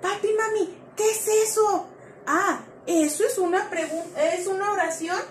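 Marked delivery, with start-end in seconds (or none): 0.0-1.9 lightly voiced kid asking a parent; a hint of a small child's question; curious child. Teacher voicing a kid asking mom and dad, lightly childlike. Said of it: "¿qué es lo primero que preguntan?".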